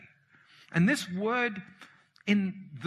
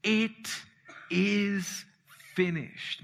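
slowly, word by word, letting each land; slow declaration; much slower than usual. Acted. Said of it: "He said".

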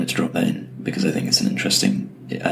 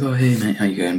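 lightly imitated casual greeting, starting higher; breezy mock hello from an easygoing boss; laid-back co-founder; 4 semitones higher than usual. Co-founder opening a first video chat, lightly voiced as laid-back. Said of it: "pretty kind of laid back guy".

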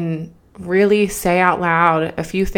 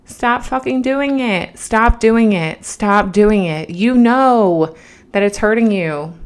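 tough love; 2 semitones higher than usual. Retold or imitated. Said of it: "What would you say to her?".

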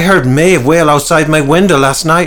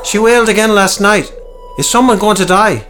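much higher, louder worried ask; anxious question; 11 semitones higher, 4 dB louder than usual. A narrator's reading. Peter asking the doctor about death, high and anxious. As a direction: ask it in fear.

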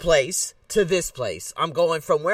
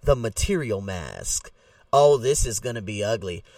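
put-on country accent; 8 semitones lower than usual. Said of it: "That's my country accent".

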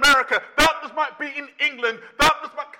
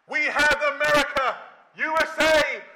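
lightly voiced confident optimist; a hint of a naive believer; another complacent voice; 2 semitones higher than usual. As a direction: reassure yourself it will be fine, mildly smug. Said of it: "another voice saying".

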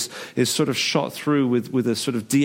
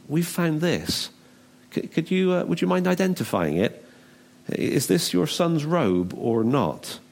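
feigned innocence; 4 semitones higher than usual. Acted. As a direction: gingerly put it to a father. Brothers feign innocence to father.

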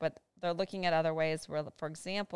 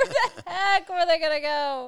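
cleaned-up retake; 13 semitones higher, 8 dB louder than usual. Real, not acted. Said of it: "apologize for my foul language".

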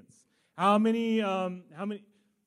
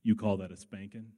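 put-on kid's taunt; 10 semitones lower than usual. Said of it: "And then the line comes".

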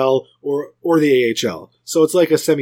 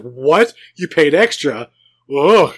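disgusted; 5 dB louder, slower than usual. Retold or imitated. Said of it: "the disgust".

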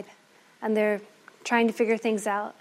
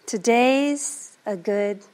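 tender; much slower than usual. Acted. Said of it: "looking at the snake".

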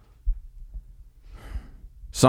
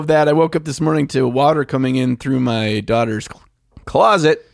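ordinary talk, nothing marked

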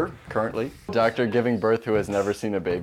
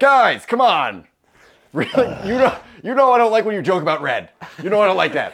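high, hurt, complaining bull; whiny bull voice; 8 semitones higher, 4 dB louder than usual. Acted. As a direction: whine like a teased bull. Bull complaining about red jokes.

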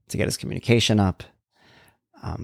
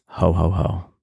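Santa laugh; 4 semitones lower, slower than usual. Pretend. Festive aside, Santa laugh.

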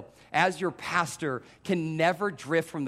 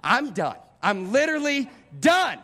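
fed-up; 6 semitones higher, 4 dB louder than usual. Retold or imitated. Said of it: "mildly irritated to just".

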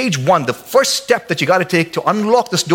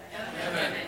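laughing; 17 dB quieter than usual. Real, not acted. Laughs at own punchline.

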